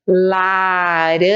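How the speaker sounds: stretched out slowly, syllable by syllable; slow syllable reading. Shown as a demonstration. Teacher sounding out a word slowly for children. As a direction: draw the word out so kids hear each part. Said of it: "vamos pensar, ó".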